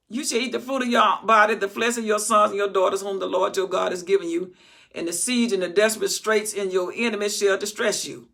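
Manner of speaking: loud preached scripture reading; preaching scripture. Acted. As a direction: proclaim the verse with force.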